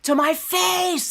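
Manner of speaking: slow, loud, high indignant cry; real outrage. Real, not acted. Outraged at what she said.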